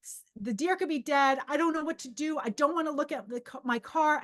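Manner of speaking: a touch of frantic upset; retold distraught outburst. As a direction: let it spill out in acted distress. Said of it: "let it myself out".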